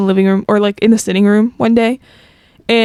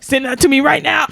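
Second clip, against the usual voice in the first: hammed-up urgent order, a bit higher; mock dad's demand; 4 semitones higher than usual. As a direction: imitate a dad demanding it immediately. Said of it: "my dad was like".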